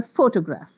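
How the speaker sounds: "photograph" with the first syllable, PHO, stressed. Shown as a demonstration. Teacher showing how stress clarifies words, first-syllable stress. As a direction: punch PHO at the start of "photograph". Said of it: "If the word is on the first".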